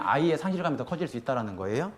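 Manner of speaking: ordinary delivery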